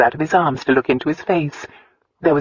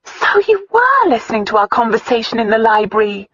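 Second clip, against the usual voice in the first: stunned; 8 semitones higher, 4 dB louder than usual. A narrator's reading. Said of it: "Christina sounded stunned".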